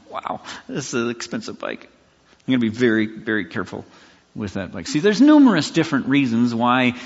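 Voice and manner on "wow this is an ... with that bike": hushed, breathy careful voice; nervous awe. Retold or imitated. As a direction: murmur it as if afraid to scratch it. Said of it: "It's like".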